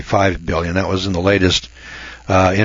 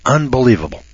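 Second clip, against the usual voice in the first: Brian Williams gasp. Retold or imitated. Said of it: "Brian Williams gasped and said".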